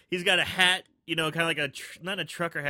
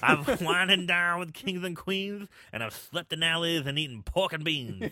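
bad Dusty Rhodes impression. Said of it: "my bad Dusty Rhodes impersonation".

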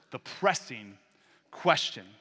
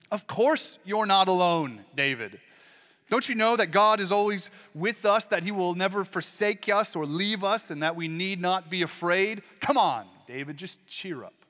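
mock glib comfort; 3 semitones higher, 4 dB louder than usual. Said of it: "Of course that's all true, but it's missing the point".

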